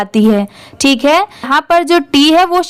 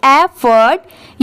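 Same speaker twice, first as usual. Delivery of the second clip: एफर्ट slowly in two parts, "eff-urt"; slow syllable-by-syllable एफर्ट; model pronunciation; much slower than usual. Shown as a demonstration. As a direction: stretch एफर्ट with a rising end. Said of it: "तो क्या पढ़ेंगे".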